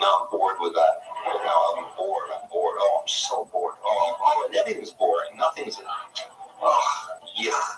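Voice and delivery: acted bored sighing, fading into breath; mock boredom. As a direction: mumble through hammed-up, listless tedium. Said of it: "let yourself be bored".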